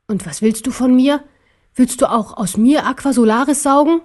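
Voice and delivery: lightly voiced bear daring the tyrant; challenging little bear. (herausfordernd, höhere Stimme)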